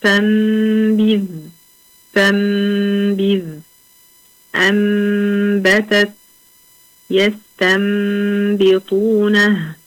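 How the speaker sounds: each word drawn out, نون turned into a nasal ميم before ب; teacher listing iqlab examples; slow tajweed examples. Shown as a demonstration. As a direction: recite slowly with held ghunna on each word. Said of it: "في كلمة واحدة".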